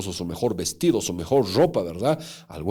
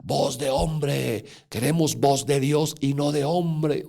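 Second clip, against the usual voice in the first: rally the crowd against the man, half-voiced; mild mock crowd yell; 4 semitones higher, slower than usual. Crowd rejecting the preacher's message, a mild mock chant. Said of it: "todo el pueblo empieza a gritar".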